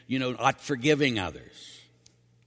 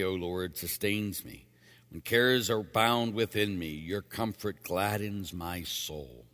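measured liturgical refrain, falling at the end; psalm reading. Acted. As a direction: recite the psalm with formal, even cadence. Leads responsorial psalm.

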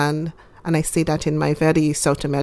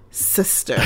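whispered; 6 dB quieter than usual. Retold or imitated. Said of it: "He looked at me as to say".

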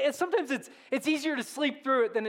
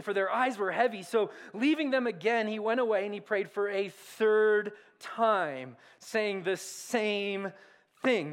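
scripture reading. Acted. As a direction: read the passage like holy words. Reading the Gospel passage aloud.

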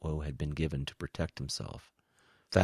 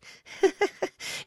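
high, light creature giggle; light laugh; 4 dB louder than usual. A narrator's reading. Alien spy brushes off Woe's curse, laughing lightly. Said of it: "Quiss laughed lightly".

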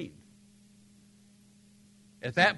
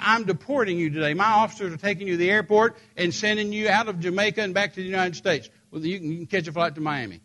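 angry lady official; 5 semitones higher, 3 dB louder than usual. Retold or imitated. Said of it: "She said".

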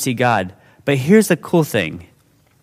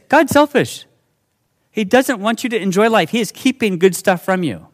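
lightly voiced scheming serpent, higher; a hint of a tempting snake, pitched up; 7 semitones higher than usual. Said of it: "the serpent is saying this".

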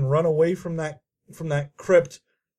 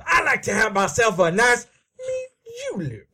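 mock Southern accent; 3 semitones higher than usual. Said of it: "that southern accent that we do".

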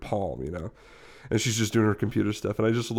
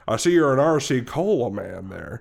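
dad small talk; 2 semitones higher, 4 dB louder than usual. Retold or imitated. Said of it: "in that kind of tone of voice".

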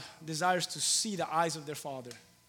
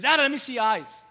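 put-on higher, a child's pleading ask; little girl voice; 7 semitones higher, 10 dB louder than usual. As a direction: pitch it up like a small daughter. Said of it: "and, and she says".

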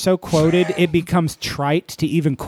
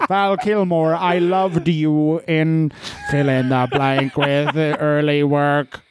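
robot interviewer; slower than usual. Pretend. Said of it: "Interviewtron four thousand".

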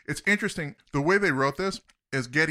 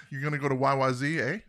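joking Canadian question ending on a rising "eh"; quick, amused Canadian tag question; faster than usual. Retold or imitated. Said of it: "saying A at the end of the sentence".

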